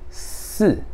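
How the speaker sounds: "si" said a little further back inside; short Mandarin "si", vowel held inward. Shown as a demonstration. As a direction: say "si" pulled slightly inward. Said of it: "um pouco mais pra dentro".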